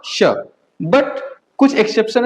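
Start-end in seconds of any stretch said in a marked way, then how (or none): 0.1-0.2 श as a short "sha"; distinct "sh" in श; German CH sound. Shown as a demonstration. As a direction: say ch as श, not च. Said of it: "सीएच का pronunciation क्या होगा".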